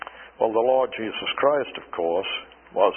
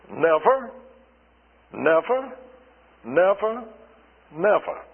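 each "never" punched, the third lifted higher; repeated emphatic never; 4 semitones higher than usual. Shown as a demonstration. Preacher stressing God's five negatives, emphatic. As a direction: hammer each "never" in turn. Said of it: "Five times for those five negatives".

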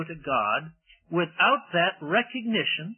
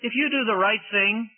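pleading; 2 semitones higher than usual. Pretend. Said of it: "very loving and very appealing".

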